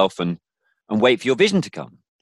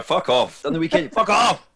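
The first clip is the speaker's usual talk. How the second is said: mock dismissive brush-off; 8 semitones higher than usual. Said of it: "That kind of vibe".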